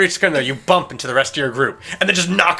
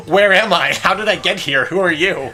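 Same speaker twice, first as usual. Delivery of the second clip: louder, higher mock bewilderment; mock bewildered game character; 5 semitones higher, 5 dB louder than usual. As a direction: fire off questions in exaggerated confusion. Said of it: "text option of just replying with".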